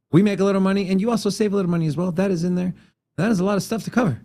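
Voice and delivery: rushed, breathless read; racing through, short of air; out of breath. Real, not acted. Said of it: "I'm running out of breath here".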